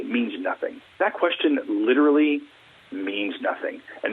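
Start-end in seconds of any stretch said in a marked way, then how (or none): none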